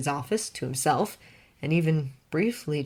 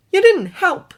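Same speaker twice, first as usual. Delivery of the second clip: higher, louder sulky retort; Clark's voice, sulking; 11 dB louder than usual. A narrator's reading. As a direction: jut the chin and fire back.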